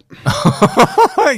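sudden high squealing laugh; high burst of laughter. Real, not acted.

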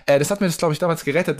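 bad connection sound; poor mic on the line; low quality stream. Real, not acted. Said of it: "sorry für den Sound hier".

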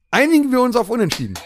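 laughing shout. Acted. Host performs Holy Grail quote.

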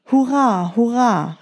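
high joyful cheer. Acted. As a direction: cry out with joy. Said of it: "rief er".

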